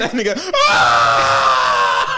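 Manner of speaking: drawn-out cry through laughter; laughing cry. Real, not acted. Friend cracking up at Gohan's daydream, slow laughing howl. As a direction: lose it laughing.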